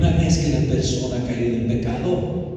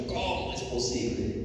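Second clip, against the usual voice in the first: mock indignant disbelief; mild retold indignation; 7 semitones higher, 8 dB quieter than usual. Indignant churchgoer judging a drunken brother, mildly outraged. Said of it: "me daba mucho coraje con los hermanos".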